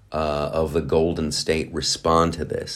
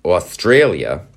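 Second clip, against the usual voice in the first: slow, hint of a New York accent; accidental New York accent; slower than usual. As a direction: slip into New York vowels. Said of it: "why am I using a New York accent?".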